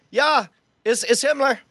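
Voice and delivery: lightly voiced German officer; Himmler. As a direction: answer the phone as a stiff officer. Answers phone as Himmler.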